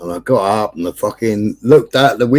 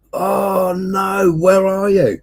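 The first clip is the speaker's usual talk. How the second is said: higher, lightly voiced worried friend; imitated mate; 8 semitones higher, much slower than usual. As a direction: play the alarmed friend.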